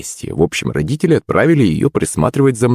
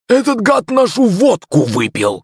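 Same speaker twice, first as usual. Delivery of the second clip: much higher, slow strained rasp; wheezing drunk; 14 semitones higher than usual. A narrator's reading. Gap-toothed drunk rasps at the boy, wheezing. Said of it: "просипел второй".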